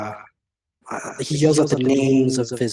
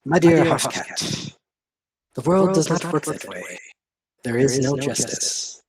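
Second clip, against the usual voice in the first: smiling villain. Acted. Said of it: "drops the facade and smiles at you".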